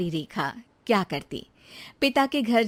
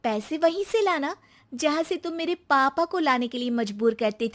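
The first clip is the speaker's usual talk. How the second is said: put-on higher young woman's voice, firm rebuke; 4 semitones higher than usual. Ex-wife rebuking ex-husband about her father's debts, firm. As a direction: lay down the lesson to him.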